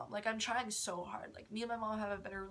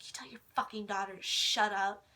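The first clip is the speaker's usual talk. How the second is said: louder, harder on the last words; retold angry demand; 7 dB louder than usual. Stepmother ordering dad to silence his daughter, retold angry demand. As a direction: imitate a fed-up order, building louder.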